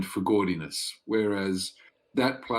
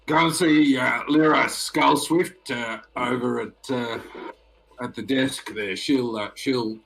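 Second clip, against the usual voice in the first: half orc doorman; 3 dB louder than usual. Acted. Orc doorman answers the noble guest, loud and casual. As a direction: brush them off, blokey and loud.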